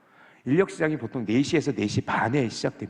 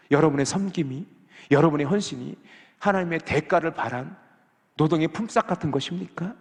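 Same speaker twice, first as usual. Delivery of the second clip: usual speaking voice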